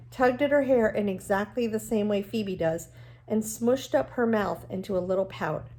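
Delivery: reading a novel aloud to the class, even and clear; steady read-aloud storytelling voice; story narration. A narrator's reading. Teacher reads novel aloud to class.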